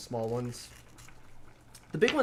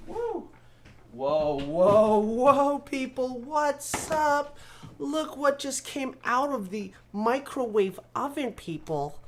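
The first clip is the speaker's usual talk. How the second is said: excited showoff; 9 semitones higher, much slower than usual. Real, not acted. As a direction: hype up the reveal. Excited showing off to viewers.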